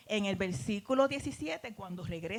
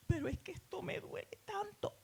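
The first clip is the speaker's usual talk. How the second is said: hushed pained whisper; 9 semitones higher, 8 dB quieter than usual. Retold or imitated. Woman answering the Spirit in a hurting whisper. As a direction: breathe it out, hurting.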